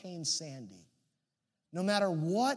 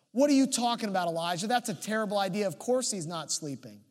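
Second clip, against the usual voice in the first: indignant retort; 3 dB louder than usual. Acted. Prophets objecting to Elijah's taunt, mock indignant. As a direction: burst in objecting, then settle down.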